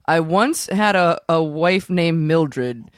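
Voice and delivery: slow, halting improvised limerick; limerick recital. Acted. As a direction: recite it line by line, feeling out the rhyme.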